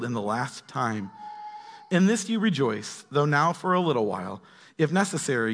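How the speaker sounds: expressive read-aloud of an apostle's letter; measured, emphatic Bible reading; scripture reading. Acted. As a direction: read it out to the congregation with weighted phrases. Reads scripture aloud to the group.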